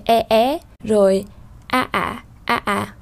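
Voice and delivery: "e, é, a, ả" as a demo of Vietnamese tones; change only the tone on "e, é, a, ả"; đổi thanh điệu. Shown as a demonstration. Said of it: "chỉ có điều tiết về âm sắc". (đọc mẫu "e, é, a, ả" theo thanh)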